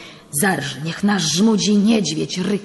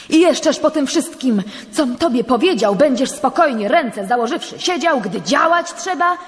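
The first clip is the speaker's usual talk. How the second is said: higher and louder, pressing hard; fervent rebuke; 7 semitones higher, 5 dB louder than usual. Acted. Priest urging the judge to act, higher and louder. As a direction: shake him out of his calm.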